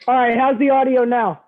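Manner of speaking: tinny, muffled bad mic; like speaking into a tin can; tin can phone. Real, not acted. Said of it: "You sound like you're talking into a tin can".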